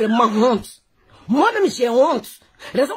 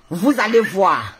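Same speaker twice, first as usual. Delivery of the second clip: drawn-out, ominous promise; slow warning; slower than usual. Real, not acted. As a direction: stretch every word like a threat. Warns viewers that proof is coming.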